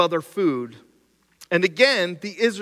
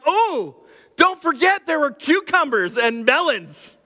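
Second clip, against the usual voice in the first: whiny Israelite; 8 semitones higher than usual. Acted. Preacher mimicking Israelites craving food, high and whiny. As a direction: beg for cucumbers like a spoiled kid.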